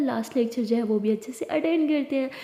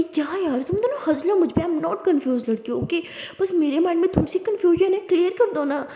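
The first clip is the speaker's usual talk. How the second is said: higher, giggly mock indignation; laughing protest; 5 semitones higher than usual. Diya protesting while her friends laugh at her. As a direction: whine back through laughter.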